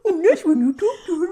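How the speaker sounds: high, loud laughing squeal. Real, not acted. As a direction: laugh through the words. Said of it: "Dog voice".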